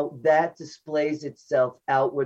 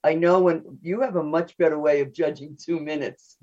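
quick, hurried explanation; speaking a bit too fast; talking fast. Real, not acted. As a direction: rush through the words a little. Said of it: "I'm talking very fast".

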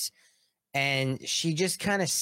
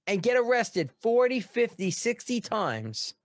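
high building count, slowing on sixty times; each number stressed, slowing at the end; emphatic count; 10 semitones higher than usual. Real, not acted. Ranting about repeat offenders.

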